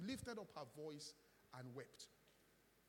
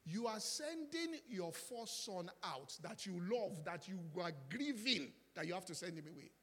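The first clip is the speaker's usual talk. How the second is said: impassioned plea; 3 semitones higher, 6 dB louder than usual. Acted. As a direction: preach the father's grief to the church. Preacher dramatizes Abraham's grief.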